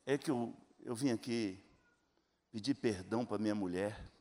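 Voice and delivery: low, soft, broken plea; hushed tearful confession. Retold or imitated. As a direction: mimic a crying man begging forgiveness. Vem aquele homem chorando.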